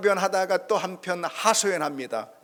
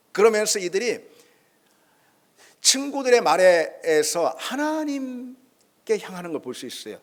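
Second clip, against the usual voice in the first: usual speaking voice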